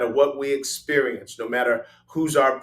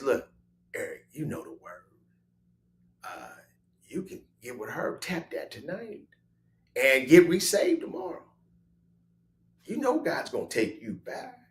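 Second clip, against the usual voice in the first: devil voice; 5 dB quieter than usual. Retold or imitated. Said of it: "The devil says".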